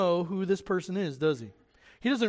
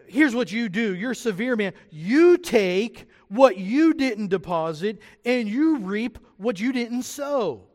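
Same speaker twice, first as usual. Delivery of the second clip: higher, louder accusation with drawn-out words; ungrateful worker; 3 semitones higher, 4 dB louder, slower than usual. Acted. Servant accusing his master of reaping unfairly, acted ungrateful. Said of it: "that sounds like an ungrateful worker".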